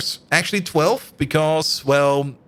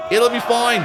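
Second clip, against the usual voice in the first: higher, louder reassurance; cheerful shout; 6 semitones higher, 3 dB louder than usual. Real, not acted. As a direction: call it out brightly.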